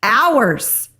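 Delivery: high, drawn-out exasperated complaint; so mad. Retold or imitated. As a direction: act out fuming at the receptionist, slowly stretched. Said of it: "I was so mad".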